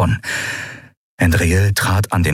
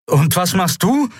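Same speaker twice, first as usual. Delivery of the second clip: gerufen; 10 semitones higher than usual. Acted. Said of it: "rief Kai über die Todeswehen".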